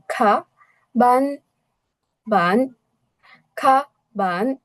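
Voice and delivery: খা and বান each given its full tone; double tone on খা, বান. Shown as a demonstration. Teacher models the textbook word, both tones on খা, বান. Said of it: "double tone হবে কিন্তু".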